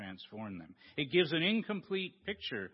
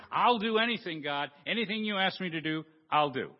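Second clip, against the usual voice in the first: eager pleading; 3 semitones higher, 4 dB louder than usual. Acted. Jack eager promising.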